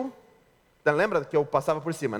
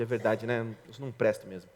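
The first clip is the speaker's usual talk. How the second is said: lower, softer defeated mumble; dejected husband; 9 semitones lower, 7 dB quieter than usual. Retold or imitated. Husband answers his scolding wife, low and defeated. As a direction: give up, sound beaten down. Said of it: "O homem responde".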